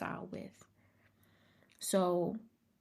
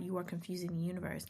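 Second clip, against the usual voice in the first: soft and quick; 6 dB quieter, faster than usual. Real, not acted. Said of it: "repeat, soft and fast".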